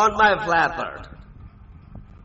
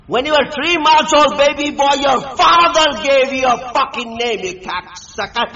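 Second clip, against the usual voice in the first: loud, raised-pitch angry rant; angry tirade; 4 semitones higher, 4 dB louder than usual. Real, not acted. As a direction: berate them with rising force. Angry tirade at someone on call.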